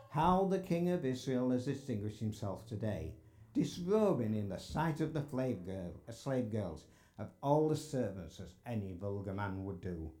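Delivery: mock-admiring, mildly scornful quote; lightly voiced scornful sarcasm, falling away at the end; sarcastic. Michal scorns David as he comes home, mildly sarcastic. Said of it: "note the sarcasm".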